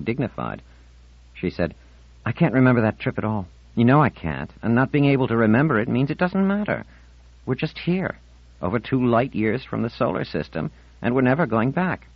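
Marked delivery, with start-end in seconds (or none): 2.3-12.1 put-on higher-pitched girl arguing back; protesting Marlena. Marlena argues with Ornell about the trip, protesting in a high voice. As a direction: voice a girl insisting on her grievance.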